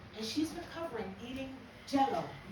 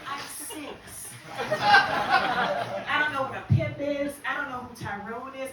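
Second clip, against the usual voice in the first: put-on innocent child; 6 dB louder, slower than usual. Playing innocent six-year-old.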